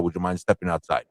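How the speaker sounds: quoting Superman. Retold or imitated. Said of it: "he goes to fight General Zod".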